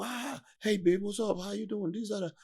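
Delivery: high-pitched mock smooth talker; flirty pickup line.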